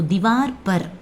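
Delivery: திவார் பர் slowly, as two separate words; correct pronunciation. Shown as a demonstration. Teacher models "on the wall" for learners, திவார் பர் said slowly. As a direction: draw out the long "aa" in திவார், then a short பர். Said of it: "this is the correct pronunciation".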